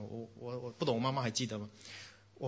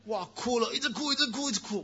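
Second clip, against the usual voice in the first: high-pitched retelling of endless crying; exaggerated childish lament, not really crying; mock wailing; 8 semitones higher than usual. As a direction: go high and repeat it like a wail.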